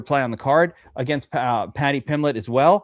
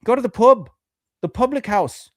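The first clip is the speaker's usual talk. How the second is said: a hammed-up British accent, higher and louder; mock British accent; 8 semitones higher, 5 dB louder than usual. Co-host mocking Brits to explain America, in a hammed-up British accent. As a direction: play the pompous Brit in a British accent, ordering at the pub. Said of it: "We'd be talking like that".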